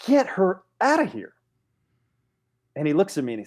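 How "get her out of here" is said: commanding. Retold or imitated. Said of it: "I slapped the table and I said".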